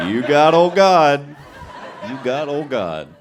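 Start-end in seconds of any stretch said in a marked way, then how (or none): 0.1-1.2 big, slow, drawn-out holler; loud, hammed-up concession; loud proclamation. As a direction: belt it out slowly, stretching the words. Repeats line, big then small.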